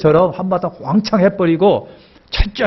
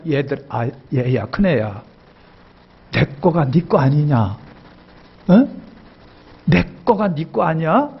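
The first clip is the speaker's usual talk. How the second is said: 낮고 부드럽게 아들을 달래듯; 큰아들을 다정하게 타이르는 아버지처럼; gentle father. Acted. Preacher voices the gentle father. (부드럽게 달래는 아버지 목소리)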